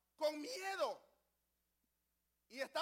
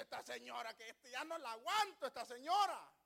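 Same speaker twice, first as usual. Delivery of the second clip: exasperated complaint. Retold or imitated. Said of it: "En vez de decirle".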